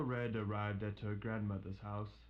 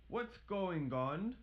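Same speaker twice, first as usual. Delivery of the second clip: alarmed doctor; 8 semitones higher, slower than usual. Acted. Doctor arrives.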